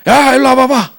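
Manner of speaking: high, loud imitated yell; rude summons. Passenger ordering the flight attendant over, rude mock yell. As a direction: bellow it like an imperious passenger.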